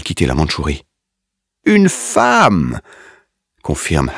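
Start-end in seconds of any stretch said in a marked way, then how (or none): 1.6-2.8 sudden high excited shout; excited cry. A narrator's reading. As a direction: blurt it out, thrilled. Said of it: "excité".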